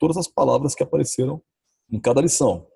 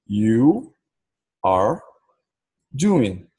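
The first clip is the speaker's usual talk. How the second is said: "You are doing." word by word, as a statement; afirmação; much slower than usual. Shown as a demonstration. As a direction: state "You are doing." with long pauses between words. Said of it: "Se eu fosse afirmar". ("You are doing." em tom afirmativo, pausado)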